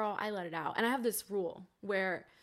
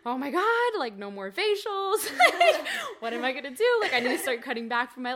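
much higher and louder panicky wail, laughing at the end; panicked sobbing; 11 semitones higher, 13 dB louder than usual. Retold or imitated. Alone in the locked bathroom after quitting, panicked sobbing. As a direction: spiral into a frantic sob. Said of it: "the sobbing bathroom moment".

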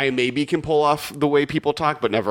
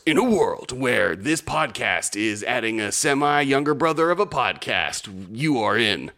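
movie trailer voice. Acted. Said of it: "back to my movie trailer voice".

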